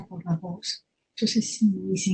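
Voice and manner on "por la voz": put-on soft, hushed reply as the old writer; barely voiced, murmured answer; Borges's low voice. Borges answering the girl who bumped him, very softly. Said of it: "tiene una voz muy baja".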